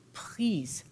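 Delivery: breathy whispered please; pleading whisper from a desperate coyote. Acted. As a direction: beg in a hushed whisper. Coyote begs the bird.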